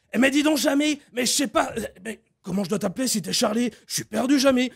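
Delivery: bright, eager TV host; a lightly voiced Fred; Fred impression. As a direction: ask like a curious kids' show presenter. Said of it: "Fred et Jamy".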